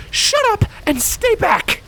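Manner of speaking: no room for argument; barked order. A narrator's reading. Scarlet ordering Primrose behind her, sharp barked command. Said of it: "she barked".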